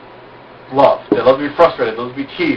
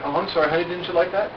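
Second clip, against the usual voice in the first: mock innocent; 4 semitones higher, 7 dB quieter than usual. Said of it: "I'll be like".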